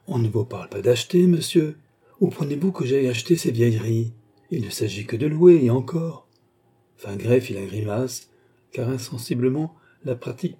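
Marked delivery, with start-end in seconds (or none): 0.1-6.3 mauvaise humeur jouée. Acted. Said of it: "s'écria-t-elle".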